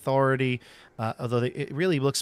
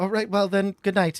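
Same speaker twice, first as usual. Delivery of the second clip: anxious, uneasy delivery with nervous, pitched-up voice; 8 semitones higher, 3 dB louder than usual. Voicing a character saying good night after an awkward moment: nervous. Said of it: "nervously go".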